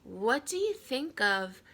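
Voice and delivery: slow, tentative; hesitant boy. Acted. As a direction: ask again, hesitantly. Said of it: "I said again".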